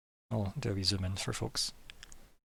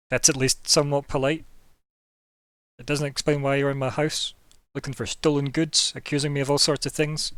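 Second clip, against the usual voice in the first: grudging reply; 4 semitones higher, 6 dB louder than usual. Acted. Vampire grudgingly replies.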